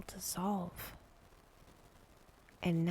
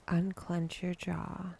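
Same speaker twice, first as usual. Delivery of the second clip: unhurried meditation guide, long pauses between phrases; calm, spacious relaxation cue; guided meditation; 4 dB quieter than usual. Acted. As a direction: gently lead a breathing exercise, leaving space after each instruction. Leads a breathing and body exercise.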